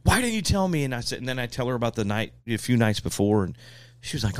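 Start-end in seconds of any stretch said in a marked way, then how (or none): 0.0-0.8 higher-pitched mock scolding; imitated mad wife. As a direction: scold like an upset wife, only half acted. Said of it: "She's so mad".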